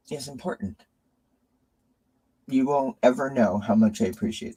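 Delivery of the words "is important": choked up. Real, not acted. Choked up thanking Mary.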